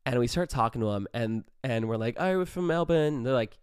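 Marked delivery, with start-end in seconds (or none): 2.2-3.1 higher, put-on Aussie accent; fake Australian accent. Claiming Melbourne to real Australians, fake Australian accent. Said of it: "still sticking with our Australian accents".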